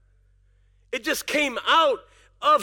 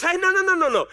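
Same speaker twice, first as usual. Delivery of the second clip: voice of God. Pretend. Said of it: "and God says".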